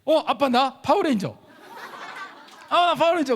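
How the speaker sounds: 높고 크게 들뜬 다섯 살 흉내; 신나서 외치는 꼬마처럼. Retold or imitated. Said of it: "아들이 말하더라고". (아빠에게 자랑하는 아들 흉내, 들뜬 목소리)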